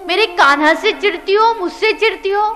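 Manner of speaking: scolding. Acted. Mother scolds the accusing woman.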